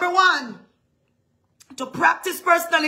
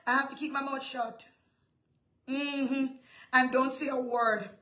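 suddenly low and much softer; hushed restraint; 3 semitones lower, 9 dB quieter than usual. Acted. Preacher keeping her mouth shut, hushed restraint. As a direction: drop it right down, holding your tongue. Acts out holding her tongue.

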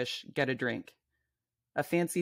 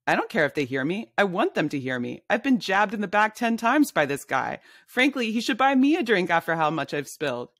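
loud complaint; 4 semitones higher, 3 dB louder than usual. Acted. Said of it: "You're being kind of loud".

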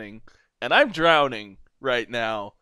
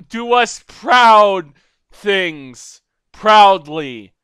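loud, high, slow grandiose decree; hammed-up royal send-off; mock heroic speech; 5 semitones higher, 8 dB louder, much slower than usual. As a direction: deliver it like a pompous king. Mock heroic send-off, fumbling words.

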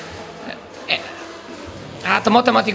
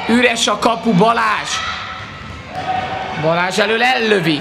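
excited sports commentary; 4 semitones higher than usual. Real, not acted. Open goal, live shot call.

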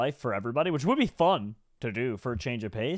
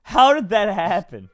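slow, louder amazed question; amazed disbelief; 6 semitones higher, 9 dB louder, slower than usual. Real, not acted. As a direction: still stunned by what happened. Amazed after escape.

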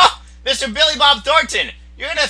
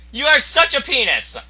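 ordinary talk

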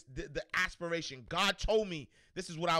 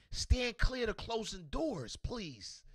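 slow, announcer-style subway call; subway announcement; 4 semitones higher, much slower than usual. Pretend. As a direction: play the train announcement, slow.

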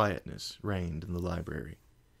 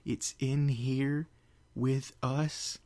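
frightened; 6 semitones higher, much slower than usual. Acted. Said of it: "Fluttershy shuddered".

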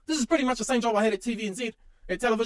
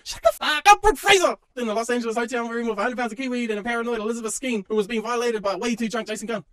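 angry shout. Acted. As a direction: yell them down. Yelling at celebrities.

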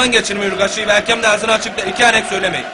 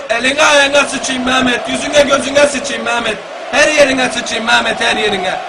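exasperated cursing; 3 semitones higher, slower than usual. Real, not acted. Missed shot, commentator cursing.

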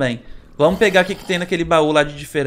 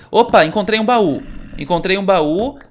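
excited; 4 semitones higher, 4 dB louder than usual. Real, not acted. Finds a chest while exploring.

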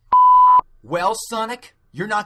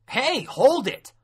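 high, loud, drawn-out order; raised-voice challenge; commanding halt; 10 semitones higher, 5 dB louder, slower than usual. Acted. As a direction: call out to stop someone in their tracks. Acted officer stops the hero.

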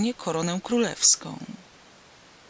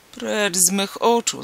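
echoed command; 2 semitones higher, 5 dB louder than usual. Acted. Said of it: "zawołał Hindbad w ślad za królem".

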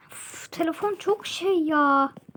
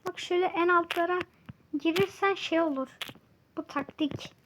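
flat, fast, even robot talk. Real, not acted. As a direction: sound like a monotone robot. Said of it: "Niye robot gibi konuşuyorum?". (robot gibi tekdüze ses)

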